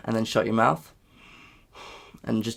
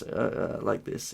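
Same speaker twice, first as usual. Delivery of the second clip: crackly morning voice; 2 semitones lower, 8 dB quieter, slower than usual. Shown as a demonstration. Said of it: "crackly like this".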